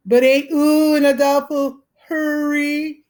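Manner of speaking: mock a little girl teasing the boys; shrill girlish voice.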